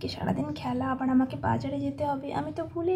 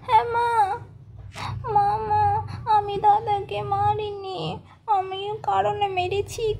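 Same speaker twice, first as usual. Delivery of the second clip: put-on a higher child's voice, slow at first; little girl pleading; 3 semitones higher than usual. Daughter telling her mother why she hit her brother, childlike. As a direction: explain yourself like a guilty little girl.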